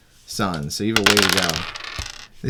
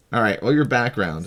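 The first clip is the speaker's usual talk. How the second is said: ordinary talk, nothing marked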